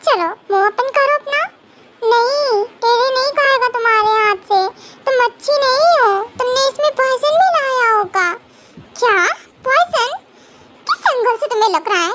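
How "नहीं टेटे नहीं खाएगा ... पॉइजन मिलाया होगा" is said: lightly voiced child refusing food; little childlike Tete, stubborn. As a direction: refuse like a sulky little kid.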